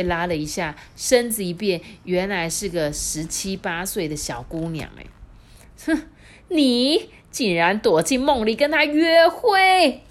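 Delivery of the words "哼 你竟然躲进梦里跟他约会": high, loud, slow accusing; old wife furious at the betrayal; jealous outrage. Acted. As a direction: catch him red-handed. Wife catches husband on date.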